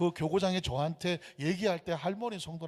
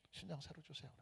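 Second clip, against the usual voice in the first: barely voiced, much softer repeat of the plea; near whisper; 19 dB quieter than usual. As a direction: let the prayer fade to a breath. Repeated quietly, nearly whispered. (숨결처럼 사라지는 기도)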